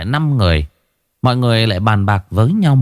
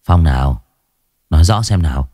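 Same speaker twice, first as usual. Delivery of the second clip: gruff cop Vũ; 5 semitones lower than usual. Acted. Vũ brushing off the crying boy, low and gruff. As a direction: talk down to the snivelling kid. Vũ questions.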